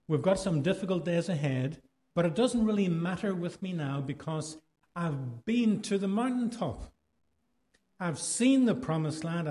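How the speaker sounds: a hint of a preacher building to a climax; quoting King. Shown as a demonstration. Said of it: "read with my Irish accent".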